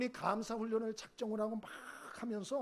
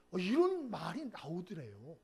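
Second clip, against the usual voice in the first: usual speaking voice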